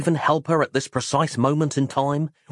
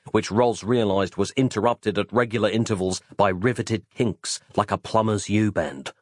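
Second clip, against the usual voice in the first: ordinary delivery, nothing marked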